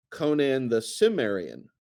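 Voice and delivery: "Cimmerian" starting with a clear s; soft s for the C in "Cimmerian"; soft-C pronunciation. Shown as a demonstration. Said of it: "most English people s-, wanting to say".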